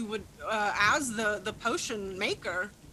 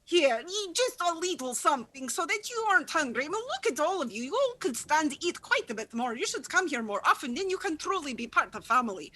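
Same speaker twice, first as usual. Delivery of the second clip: doting mother. Acted. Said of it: "she's like".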